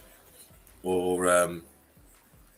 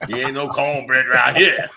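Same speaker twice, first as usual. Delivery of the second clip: louder, laughing tease; laughing mock line; 3 semitones higher, 7 dB louder than usual. Teasing friend, louder laughing tease. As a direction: giggle the catchphrase out.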